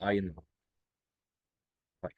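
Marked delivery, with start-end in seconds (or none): 0.0-0.4 short اينر closing on "ah", no rolled R; vocalised final R. Shown as a demonstration. Teacher confirming the rule to learners, R-less ending on اينر. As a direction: finish اينر softly on an open vowel. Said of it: "الاي ار في اخر الجمله بنطقها اه".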